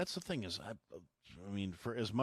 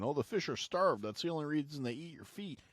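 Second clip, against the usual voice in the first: higher, louder whiny objection; mock complaining; 9 semitones higher, 4 dB louder than usual. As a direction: mimic a fussy complainer. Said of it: "probably gonna complain".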